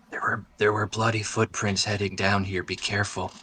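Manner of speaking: hushed, softly voiced warning; mock whisper. Warning a companion at the top of the ladder, hushed. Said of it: "lean over and whisper to him".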